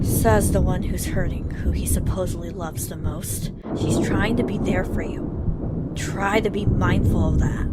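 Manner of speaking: stern scolding. Acted. Scolding Louis for pushing Aurora away, stern and loud. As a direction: lay into him firmly.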